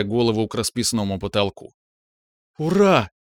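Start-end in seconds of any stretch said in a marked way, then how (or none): 2.6-3.1 громко и высоко крикнуть от радости; ликовать во весь голос; ликующий крик. A narrator's reading. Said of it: "ликующе крикнула Светлана". (ликующий крик с галереи)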